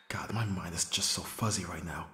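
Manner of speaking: hushed, breathy hangover murmur; whispered to self. Acted. Hungover friend muttering to himself after the night, whispered. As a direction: say it under your breath, dazed.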